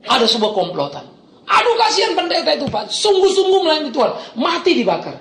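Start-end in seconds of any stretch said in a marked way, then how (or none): 1.5-5.2 high, whiny pity for the pastor; pitying churchgoer. Retold or imitated. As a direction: mimic a sorry churchgoer sighing. Voicing a pitying congregant. (meniru jemaat yang mengeluh kasihan)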